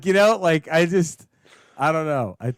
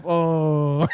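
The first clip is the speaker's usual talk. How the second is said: drawn-out groan of a crowd, imitated; disappointed golf gallery; 3 semitones lower than usual. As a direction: groan as the shot goes wrong. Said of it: "the ball bounces off the green into the rough".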